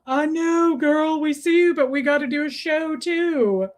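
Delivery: cooing talk to an animal; talking to a pet. Real, not acted. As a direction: placate a pet that wants attention. Soothing an attention-seeking pet.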